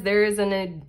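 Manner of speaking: rushing ahead, then cutting off; too fast. Real, not acted. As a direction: read it hurriedly and break off. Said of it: "I'm talking too fast".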